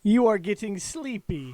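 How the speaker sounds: slow, mock hypnotist drone, half laughing; hypnotizing. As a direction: lull them under like a stage hypnotist. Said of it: "My googly eyes are hypnotizing you".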